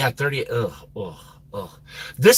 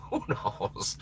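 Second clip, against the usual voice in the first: breathy laughing whisper; 11 dB quieter than usual. Real, not acted. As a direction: giggle it under your breath.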